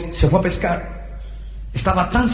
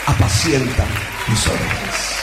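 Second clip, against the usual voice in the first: tender. Acted. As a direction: ask gently, phrase by phrase. Acts Jesus tenderly restoring Peter.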